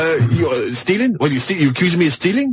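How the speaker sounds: affronted mimicry in a muddled Turkish accent; Turkish-sounding accent. Storyteller as accused bloke objecting to stealing charge, Turkish-sounding accent. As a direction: protest like a wrongly accused foreigner, accent wobbling. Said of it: "Definitely, definitely Turkish".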